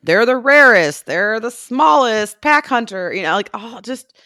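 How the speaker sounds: high, hyped-up narrator voice; gushing video voice. Pretend. Podcast host gushing to co-host about bush dogs, high put-on voice. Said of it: "I don't know why I'm doing that voice".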